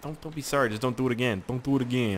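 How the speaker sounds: lightly tough New Yorker scolding; mock New Yorker telling-off; New Yorker accent. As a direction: scold with a hint of New York. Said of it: "like, New Yorker on my ass".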